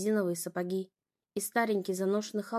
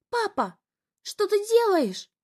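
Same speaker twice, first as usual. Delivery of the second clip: much higher, loud, horrified; terrified cry; 10 semitones higher, 6 dB louder, slower than usual. A narrator's reading. Younger sister sees father slap Zoya, terrified. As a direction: cry out in horror. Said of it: "в ужасе кричала она".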